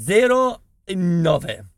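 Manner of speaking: stammering, very slow, halting delivery. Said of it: "se balbetti non si capisce".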